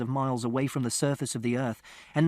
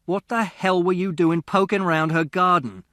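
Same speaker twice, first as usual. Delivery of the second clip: an angry father's raised voice, higher and louder; 4 semitones higher, 6 dB louder than usual. A narrator's reading. Father demanding answers from son, angry raised voice. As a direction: snap it at the boy like a furious dad.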